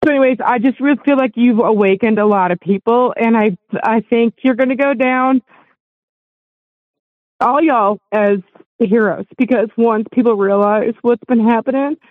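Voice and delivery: fighting back tears while thanking; getting emotional. Real, not acted. Caller to the hosts, getting emotional while thanking them. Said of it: "I'm gonna get emotional".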